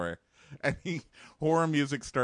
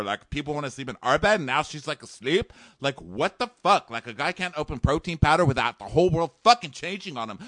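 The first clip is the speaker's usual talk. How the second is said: higher, louder indignant bro; mock bro rant; 5 semitones higher, 3 dB louder than usual. Host imitating Josh complaining to producers, higher bro voice. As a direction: vent like an aggrieved bro.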